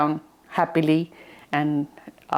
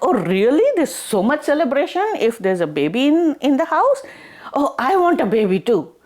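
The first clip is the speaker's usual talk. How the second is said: eager wonder; 6 semitones higher than usual. Acted. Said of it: "She's like".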